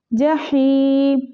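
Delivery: जहीम with the ha breathed from the throat, slowly; throaty ha. Shown as a demonstration. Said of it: "हा को हम हलक से निकालेंगे".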